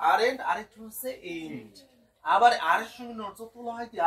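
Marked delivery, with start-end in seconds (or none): 1.3-1.7 ain't stretched into one long syllable; pronunciation demo. Shown as a demonstration. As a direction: model a slow, drawn-out ain't. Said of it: "একটি হচ্ছে". (টেনে ধীরে ain't বলা)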